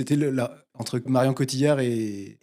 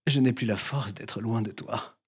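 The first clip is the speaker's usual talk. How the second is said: slow motion; 3 semitones lower, 5 dB quieter than usual. Retold or imitated. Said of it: "je vais mettre un temps d'arrêt entre chaque mot".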